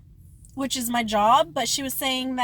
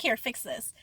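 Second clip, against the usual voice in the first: rude order; 2 semitones lower, 7 dB quieter than usual. Retold or imitated. Worker correcting coworker without apology, mildly rude. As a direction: hand it over without any courtesy. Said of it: "that's way more rude".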